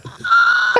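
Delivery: put-on high, slow gushing over a baby; delighted squeal. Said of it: "I be like".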